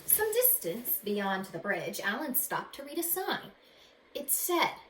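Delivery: expressive read-aloud storytelling; story narration. A narrator's reading. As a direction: read it like a picture book to kids. Reads picture book aloud.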